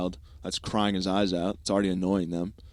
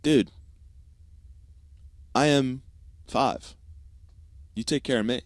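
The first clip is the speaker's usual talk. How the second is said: put-on higher, emphatic child voice; indignant kid retort; 4 semitones higher than usual. Five-year-old talking back to dad, indignant retort. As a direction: protest slowly to dad in a kid's voice.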